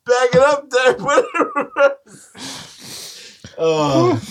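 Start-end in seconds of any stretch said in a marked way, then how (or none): 0.1-1.9 excited shout. Real, not acted. Friends mocking a name.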